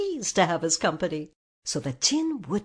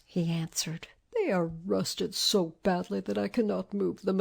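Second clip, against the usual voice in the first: rusted Tin Man. Acted. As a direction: squeeze the words out as if jaw is rusted.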